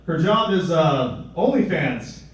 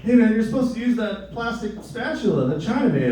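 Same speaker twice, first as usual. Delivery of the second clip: imitated young coworker; 5 semitones higher than usual. Imitating young coworker correcting him.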